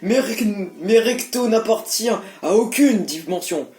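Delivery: lightly voiced old sage; a hint of an old man. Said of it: "voix de vieux".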